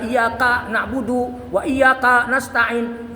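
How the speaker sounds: "Iyyaka" with the stress and length put on the wrong syllable; mistaken recitation. Teacher mimicking someone not taught by an ustad, mistaken recitation. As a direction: imitate an untaught reciter drawing out "Iyyaka" wrongly. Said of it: "Ngajinya bukan sama ustad".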